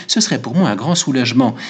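lightly voiced barber, pitch rising as he confesses; a hint of an excitable barber; eager barber. Barber confesses his razor obsession to Goludja, mildly excitable.

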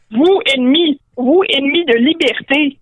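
indignant orc voice; an orc sputtering at an innkeeper, words set apart; Ugluk. Acted. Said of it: "Ugluk devint cramoisi". (voix d'orque indigné)

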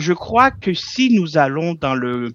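put-on accent from France by a Québécois; Québécois doing a French accent. Shown as a demonstration. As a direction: imitate a French speaker. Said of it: "avec l'accent français".

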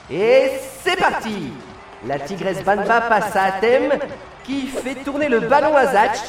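lively play-by-play calling the match; excited sports commentary. Acted. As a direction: call the action like a live commentator.

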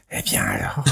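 very deep, soft ghostly murmur; imitating a ghost voice. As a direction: drop way down for a ghost in the mic. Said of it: "derrière, j'entendais". (voix de fantôme très grave et étouffée)

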